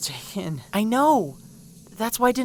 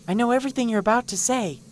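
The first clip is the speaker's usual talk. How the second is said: ordinary talk, nothing marked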